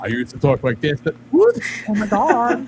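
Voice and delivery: mock voice switch. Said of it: "I thought".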